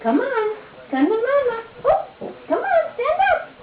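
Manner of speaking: cooing to a scared pet. Real, not acted. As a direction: coax her gently, like a scared pup. Parents coaxing baby to walk.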